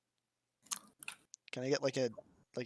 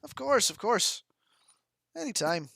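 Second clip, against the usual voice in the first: put-on Irish accent, pitched up; unhurried Irish reassurance; Amako; 7 semitones higher than usual. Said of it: "doing an Irish accent for Amako".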